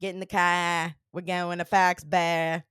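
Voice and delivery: put-on light Boston accent, a bit slow; breezy Boston accent road-trip call. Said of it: "don't you have a Boston accent?".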